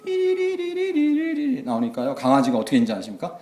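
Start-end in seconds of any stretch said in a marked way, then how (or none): 0.0-1.6 high, slow piping tune; imitated music. Pastor imitating school festival music, high piping. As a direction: mimic the tinny school loudspeaker. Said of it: "음악이 막 나오는 거예요".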